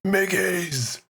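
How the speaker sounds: high dopey goblin voice; slack jawed. Retold or imitated. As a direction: say it like the dumbest grot. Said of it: "such a dopey ass voice".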